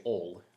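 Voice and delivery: "ol" as one clipped syllable, like ole; imitating Southern "ol". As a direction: squeeze "oil" into one syllable. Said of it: "they say".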